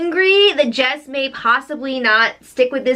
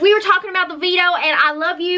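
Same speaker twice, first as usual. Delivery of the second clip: higher, innocent mock-denial voice; imitating Raven; 4 semitones higher, faster than usual. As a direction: play dumb in a higher voice. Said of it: "Raven was like".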